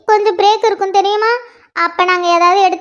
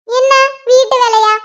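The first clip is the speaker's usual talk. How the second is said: louder, outraged repeat of வீட்டு வேலையா; incredulous echo; 4 semitones higher, 3 dB louder than usual. Acted. Mother echoing her daughter's words in mock outrage. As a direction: throw வீட்டு வேலையா back in disbelief.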